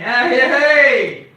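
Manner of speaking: imitating a friend's rowdy cheer; Moggy impression. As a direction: do Moggy's yell. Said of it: "That's like when Moggy did it".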